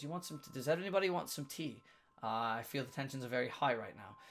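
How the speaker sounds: a hint of a smooth, confident businessman, a touch quick. Lost businessman offering the tense party tea, lightly voiced confident businessman. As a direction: lightly play the calm trader offering tea. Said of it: "and he goes".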